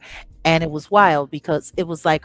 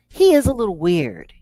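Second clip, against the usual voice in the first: imitating a singer; 3 semitones higher, 5 dB louder than usual. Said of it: "that Barbra Streisand clip".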